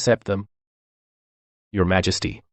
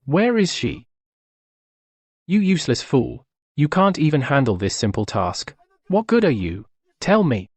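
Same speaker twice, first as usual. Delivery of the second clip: raised, high-pitched berating; angry scolding; 4 semitones higher than usual. Acted. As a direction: scold a useless servant furiously. Emperor berates a failed servant.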